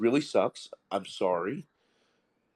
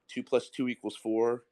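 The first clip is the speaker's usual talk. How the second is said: said nicely. Retold or imitated. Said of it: "you say it nicely".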